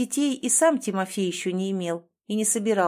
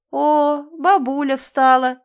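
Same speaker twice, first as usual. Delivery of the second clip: loud cheerful call; 6 semitones higher, 8 dB louder, slower than usual. A narrator's reading. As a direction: call out loudly to the room. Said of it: "громко сказал Иван".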